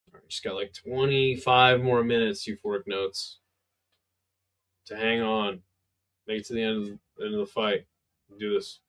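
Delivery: low, drowsy, worn-out voice; tired voice. Real, not acted. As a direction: talk like you're fighting off sleep. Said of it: "Is my tired voice making everybody else sleepy".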